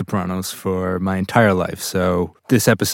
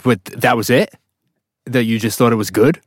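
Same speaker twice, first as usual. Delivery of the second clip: mildly indignant disbelief, retold; retold shock; 2 semitones higher, 4 dB louder than usual. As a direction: question it as if you can't believe it. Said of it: "shocked by the reaction".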